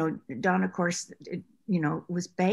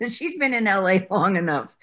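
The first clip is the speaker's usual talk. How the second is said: laughing; 6 dB louder than usual. Real, not acted. Laughing while quoting the studio.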